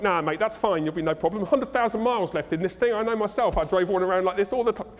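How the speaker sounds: light Cockney wheeler-dealer; breezy Cockney mechanic brushing off the problem; lightly put-on Cockney accent; dodgy Cockney. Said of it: "somebody dodgy, I go to Cockney accent".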